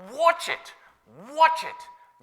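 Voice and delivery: very high, punched warning; urgent retold warning. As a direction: cry it out as a caution. Repeating the apostle's warning.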